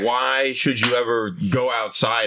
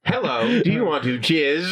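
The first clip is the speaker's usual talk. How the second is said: sweet nothings; 3 semitones higher than usual. Pretend. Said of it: "Siri whispering sweet nothings into your ear".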